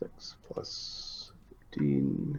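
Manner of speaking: slow, whispered, quiet delivery.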